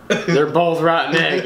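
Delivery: deadpan retelling. Retold or imitated. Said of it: "he looked me dead in the eye".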